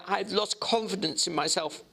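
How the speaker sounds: Jekyll's voice. Acted.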